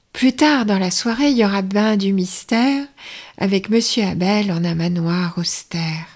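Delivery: rhymed TV listings read with a light lilt; playful vintage continuity announcer. Acted. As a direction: present the evening's programs in verse. Rereads the rhymed program announcement.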